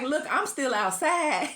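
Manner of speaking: slow, laughing "I'm still outside"; half-laughing playful boast; laughing retort. Retold or imitated. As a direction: brag through a laugh. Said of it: "And I'm like".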